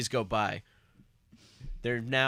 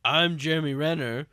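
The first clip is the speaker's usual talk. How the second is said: loud mock announcement; 5 semitones higher, 6 dB louder than usual. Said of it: "You said aloud".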